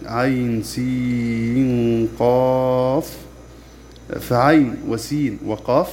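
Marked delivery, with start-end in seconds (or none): 0.1-3.2 قراءة مجودة؛ ترتيل بطيء ممدود للحروف؛ رتّل الحروف المقطعة ببطء ومد طويل؛ ترتيل قرآني بطيء. Shown as a demonstration. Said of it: "ومثلها عين".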